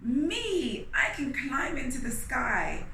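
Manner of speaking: quick excited monkey chatter. Acted. Monkey volunteering to the king, eager chatter. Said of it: "Monkey chattered".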